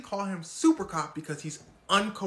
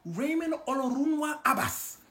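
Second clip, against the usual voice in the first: higher, louder teasing call of the name; mock FBI; 10 semitones higher, 5 dB louder than usual. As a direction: sing out his full name. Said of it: "The F B I said".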